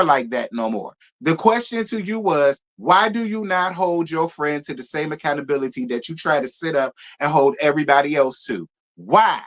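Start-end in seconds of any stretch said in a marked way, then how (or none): none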